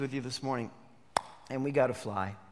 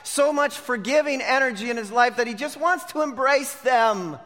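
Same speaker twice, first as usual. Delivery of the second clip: raised, punchy pulpit delivery; forceful preaching; 6 semitones higher, 3 dB louder than usual. Real, not acted. Preacher denouncing the brothers' claim to honesty, forceful preaching. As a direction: hammer each charge home.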